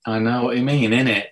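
put-on a light Cockney accent, dropping the t on innit. Joking to the British host, a quick Cockney accent. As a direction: toss off the line in a casual London Cockney lilt. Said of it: "Little Cockney going on there".

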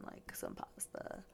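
words stretched through a yawn. Real, not acted. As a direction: say it mid-yawn. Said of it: "I keep yawning".

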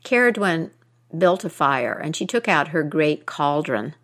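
measured storytelling voice, rising on key phrases; epic fantasy narrator. A narrator's reading. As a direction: tell it like an old myth by the fire. Storyteller narrating a Celtic myth.

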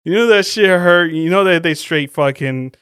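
talking through a laugh; half-shouted through laughter. Real, not acted. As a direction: laugh out the words. Laughing while describing the injury.

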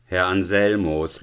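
loud, reproving call of the name; acted exclamation of disbelief. A narrator's reading. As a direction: call the student sharply to order. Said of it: "rief der Konrektor Paulmann".

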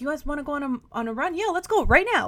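lightly put-on eager gym girl, rising on the last part; weird peppy voice. Voicing her confident future self inviting friends, mildly peppy. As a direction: play her future self, keen to go running. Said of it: "I did that weird voice for me".

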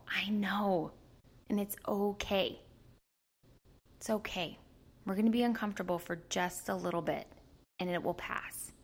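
put-on a parent calming the inner toddler; gentle reassurance. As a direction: comfort a crying child gently.

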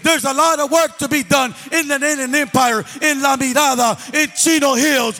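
rally the men in the room; fervent preaching. Acted. Closing rally, louder.

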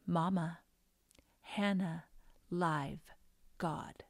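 lightly voiced toddler, word by word; halting little-girl statement, gently retold; little child's voice. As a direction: say each word separately, like a small child. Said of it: "I hear this little voice".

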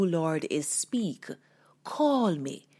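hushed, urgent whisper; whispered plea. Acted. Peter begging Jesus to call him, whispered. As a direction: breathe the plea under your breath.

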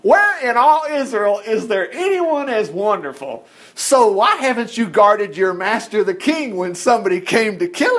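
mildly taunting challenge; a touch of scolding jeer across the valley. Acted. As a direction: press him with mocking questions. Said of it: "David taunted".

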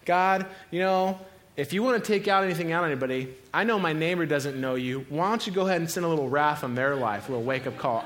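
mock-indignant complaint to God; acted aggrieved prayer; angry at God. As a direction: argue with God, a touch heated. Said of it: "keep ourselves from getting angry at God".

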